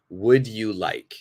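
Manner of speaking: would you like said slowly, every word clear; careful textbook pronunciation. Shown as a demonstration. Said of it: "So, perfect pronunciation".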